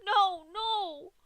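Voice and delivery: very high, very loud shriek; panicked scream. Acted. Dash screams at Pinkie's hammer, high loud shriek. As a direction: scream in terror. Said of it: "Dash screamed".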